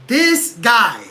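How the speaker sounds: loud disgusted outburst at the fighter; exasperated outburst. Real, not acted. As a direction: blurt it out loud, fed up. Repeated exasperated phrase.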